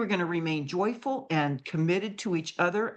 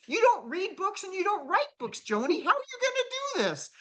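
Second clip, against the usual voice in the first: higher, teasing through a laugh; laughing tease; 11 semitones higher than usual. Retold or imitated.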